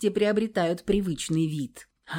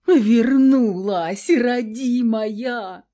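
slow, loud, howling creature voice; slow loud howling servant; howling welcome; 4 semitones higher, 7 dB louder, much slower than usual. A narrator's reading. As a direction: wail it out like a dubbed film star. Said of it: "подвывая голосом дублёра".

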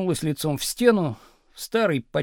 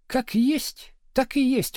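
higher, cutting retort; curt snap; 8 semitones higher, slower than usual. A narrator's reading. Wife cutting off husband's reproach with a higher retort. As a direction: cut him off, final word. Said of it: "отрезала Надя".

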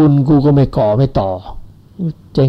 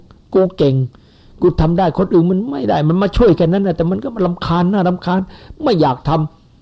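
higher, smug bragging, slowing at the end; boastful ego; 4 semitones higher than usual. Retold or imitated. Conceited monk imagined bragging, lightly voiced smug pride. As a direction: puff up like a proud show-off. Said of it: "พยอง".

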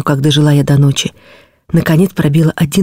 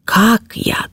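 put-on lingering girlish drawl, pitch leaping up at the end; drawn out; much slower than usual. A narrator's reading. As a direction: stretch the words out in mock fright. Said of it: "протянула княжна".

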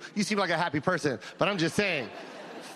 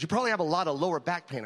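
doctor voice; 5 semitones lower, faster than usual. Retold or imitated. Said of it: "He goes".

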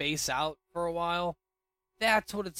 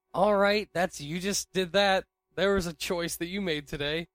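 dry sarcastic retort, raised pitch; 5 semitones higher, 4 dB louder than usual. Retold or imitated. Sarcastic inner reply to coworker.

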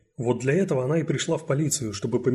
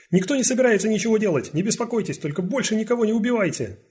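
shouted plea; 10 semitones higher, 4 dB louder than usual. Acted. Negotiating shouted through door.

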